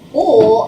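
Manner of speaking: "bull" as the bare bl blend sound. Shown as a demonstration. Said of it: "replace it with".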